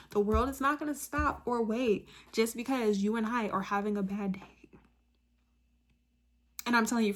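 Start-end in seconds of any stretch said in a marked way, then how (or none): 0.1-4.8 slightly slower, deliberate repeat; said slowly. Shown as a demonstration. Speaker repeating a key part to viewers, said slowly. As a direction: say it a little more slowly, spacing the words. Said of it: "I'm gonna say it slowly".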